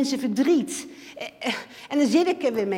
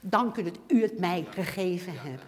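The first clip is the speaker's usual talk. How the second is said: quiet, lower "Dank u dat u het mij gegeven hebt"; soft grateful thanks; 3 semitones lower, 5 dB quieter than usual. Shown as a demonstration. Believer thanking God, quiet and tender. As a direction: murmur the thanks gently. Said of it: "Hoor je wat ik zeg?".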